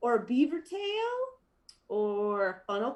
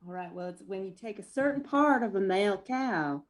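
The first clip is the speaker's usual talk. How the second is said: lazy Southern country drawl. Pretend. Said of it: "I'd like for you to say it in a country drawl".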